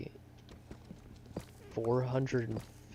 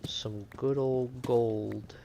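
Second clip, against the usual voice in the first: savoring drawl; 4 dB louder, much slower than usual. Real, not acted. Admiring gold ore while mining.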